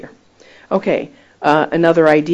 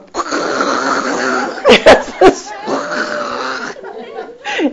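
burst of laughter; 3 semitones lower than usual. Real, not acted. Preacher recalls friend among jellyfish, bursting out laughing.

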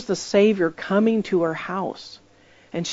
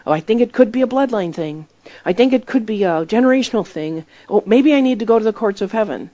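imitating the lady; 4 semitones higher, 4 dB louder than usual. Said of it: "she pulls out all the doctrines".

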